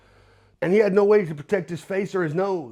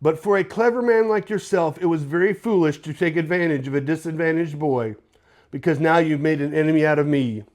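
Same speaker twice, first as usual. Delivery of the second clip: put-on posh British accent. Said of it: "in his posh British accent".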